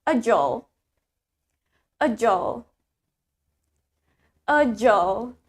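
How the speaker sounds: "agile" with a short ending, like "a-jol"; American "agile", no eye sound before the L; low, repeated model "agile", ending reduced to "-jl"; American pronunciation. Shown as a demonstration. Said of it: "While in American accent".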